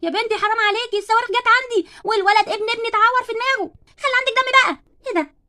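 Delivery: exasperated scolding. Acted. Neighbour scolds Barbie after injury.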